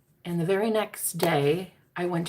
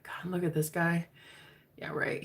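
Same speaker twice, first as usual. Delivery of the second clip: whispered self-doubt; insecure inner voice; 6 dB quieter than usual. Retold or imitated. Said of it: "I said all insecure, like, in my head".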